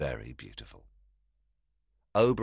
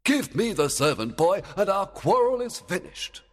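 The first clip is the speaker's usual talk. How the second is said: fairy king voice; 6 dB louder than usual. Acted. Oberon demanding.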